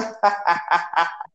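sinister villain cackle; evil laugh. Retold or imitated. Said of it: "com aquela risada maligna".

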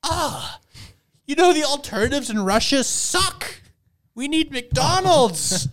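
high, hammed-up wail; wailing customers. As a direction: cry out in mock despair, way up high. Acting out wailing Russian customers.

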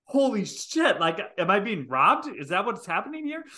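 retelling her parking-lot panic; alarmed disbelief. Retold or imitated. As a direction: ask it mid-chase in a panic. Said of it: "And I was like".

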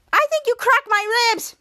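high, slow hurt voice; retold pained complaint. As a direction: imitate someone complaining of an injury. Retold injured character complains.

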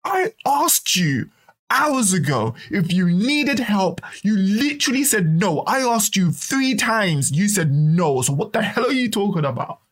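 retold indignant rebuttal to mum; angry comeback. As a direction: argue back with rising frustration. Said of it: "getting so pissed off".

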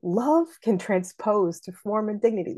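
LOVE can transpose; opening trochee. Shown as a demonstration. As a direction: lean into "Love", go lightly on "can". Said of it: "I would make that a trochee".

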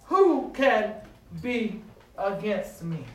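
slow, loud proclamation; resounding answer. Shown as a demonstration. Preacher proclaiming the scripture's answer, slow and loud. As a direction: ring it out like a triumphant answer. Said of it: "the resounding answer came".

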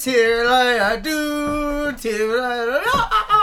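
mocking name. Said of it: "Stop making fun of my name".

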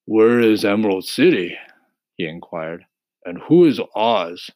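husky scarecrow. Acted. Voices the scarecrow.

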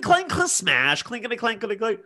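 high, rattling clink noises; mimicked crash of glass; imitated bottle smashing. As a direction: sound out bottles being flung and breaking. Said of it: "I just hear clink".

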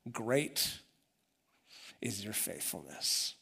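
hushed reverent verse reading; tender reading. Retold or imitated. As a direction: read it gently like a quiet promise. Reading a hopeful lament verse.

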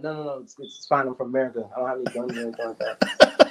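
retold soothing plea; calming someone down. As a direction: talk them down, low and harmless. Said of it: "calm them down".

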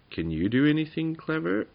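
high, pointed little goblin voice; little goblin's question. A narrator's reading. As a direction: ask it up high as the small goblin. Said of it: "asked Tuppenny".

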